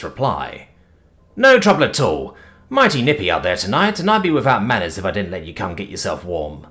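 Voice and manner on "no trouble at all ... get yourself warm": lightly voiced easygoing rural man, neighbourly; a hint of a folksy country gent being hospitable; friendly country fellow. Dan welcoming the creature to the fire, lightly voiced friendly country man.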